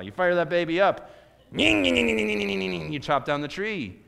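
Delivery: revved-up excitement. Pretend. Mimicking firing up chainsaw.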